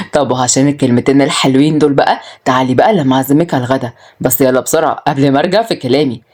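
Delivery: lightly voiced, low-pitched male character; low, mildly teasing invitation; playful man inviting. Voices Adham inviting Waad.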